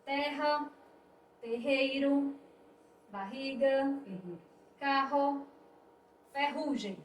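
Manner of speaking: terra, terreiro, barriga, carro, ferrugem with an aspirated H-like RR; strong RR. Shown as a demonstration. Teacher reading terra, terreiro, barriga, carro, ferrugem, strong RR. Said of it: "com mais intensidade".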